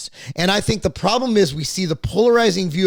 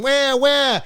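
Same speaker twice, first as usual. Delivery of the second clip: drawn-out mock baby wail; spoken "wah", stretched like a bawling baby; imitated baby cry; 7 semitones higher than usual. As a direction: mimic a newborn crying. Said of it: "it could go and".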